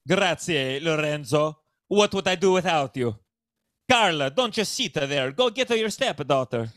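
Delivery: hammed-up Italian accent for a family patriarch; broad put-on Italian accent. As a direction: order them about in a stagey Italian accent. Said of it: "That's the decent Italian accent".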